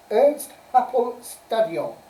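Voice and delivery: slow, deliberate go at a Welsh accent; best Welsh accent. Shown as a demonstration. Quizmaster reading out the stadium answer, in an attempted Welsh accent. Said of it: "best Welsh accent".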